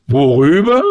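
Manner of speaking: indignant orator taken aback. A narrator's reading. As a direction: throw the question back, affronted. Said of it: "erklärte Kosonossow empört".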